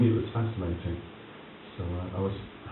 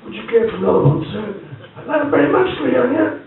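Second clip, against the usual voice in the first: high, loud jolly toasting voices; tipsy mock-formal offer of another round; loud mock-formal exchange; 8 dB louder than usual. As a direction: ham up the tipsy politeness. Refill offer and reply.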